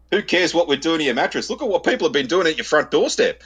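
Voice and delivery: arcing up. Retold or imitated. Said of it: "I just instantly arced up".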